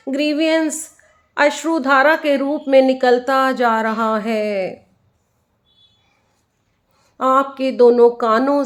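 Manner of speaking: unhurried meditation guide, leaving space after each instruction; guided meditation. Acted. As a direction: lead listeners inward, phrase by phrase, letting the endings stretch.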